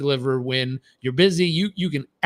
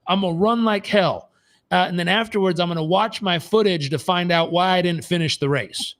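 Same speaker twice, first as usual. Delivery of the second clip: mocking; 4 semitones higher than usual. Coach mocking an athlete's plan.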